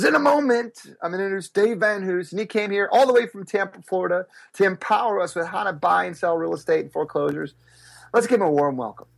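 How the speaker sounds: promoter hyping up the crowd; announcer intro. Retold or imitated. Promoter introducing the speaker to the crowd, a booming announcer voice.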